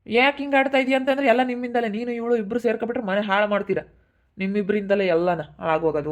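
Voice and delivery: angry outburst. Acted. Brother blames family in quarrel.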